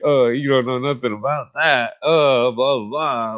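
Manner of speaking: mocking friends. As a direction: brush it off the way the friends in the hood did. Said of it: "they'd be like".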